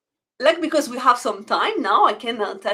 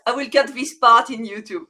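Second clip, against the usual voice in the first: laughing; 5 dB louder than usual. Real, not acted. Host laughing at the mishap.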